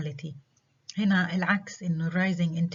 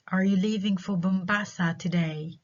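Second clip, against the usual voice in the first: slow question, lifting towards "today"; rising yes-no question. Shown as a demonstration. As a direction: ask it, keeping "today" open and unfinished. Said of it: "rising intonation".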